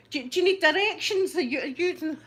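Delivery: hammed-up keen offer; mock eagerness. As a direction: call out hopefully to a driver. Pretends to hail passing flasher.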